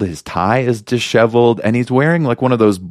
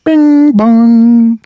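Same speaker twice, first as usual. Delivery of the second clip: high loud bing bong; chime imitation; 7 dB louder than usual. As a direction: sing it like a train chime.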